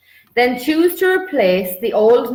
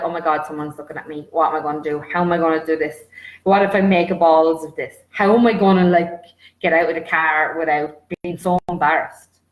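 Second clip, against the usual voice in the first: panicked inner voice; 4 semitones lower, faster than usual. Pretend. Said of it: "you're like".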